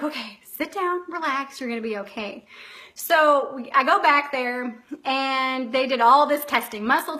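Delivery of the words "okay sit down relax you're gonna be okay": retold soothing nurse. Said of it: "she's like".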